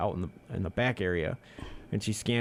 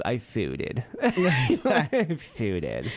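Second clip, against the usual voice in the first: mock valley girl; much slower than usual. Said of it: "if she put it together".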